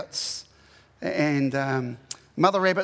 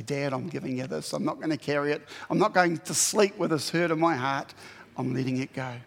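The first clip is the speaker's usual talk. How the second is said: tender prayer; 3 semitones lower than usual. Retold or imitated. Praying to God.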